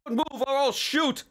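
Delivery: very high, strained warning; acted scream. A narrator's reading. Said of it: "screamed Bixby".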